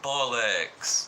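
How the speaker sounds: mock-cross exclamation, drawn out; an exasperated British curse, acted out; mock anger. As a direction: imitate an annoyed woman cursing. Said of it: "every time she'd get mad".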